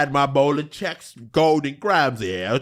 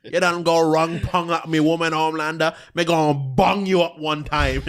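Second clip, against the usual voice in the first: mock Jamaican patois. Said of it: "Jamaican's patois is very similar".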